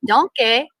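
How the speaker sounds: a light imitation of the cartoon donkey, drawn out; Donkey from Shrek. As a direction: playfully mimic the Shrek donkey saying his name. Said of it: "I hear Shrek's voice".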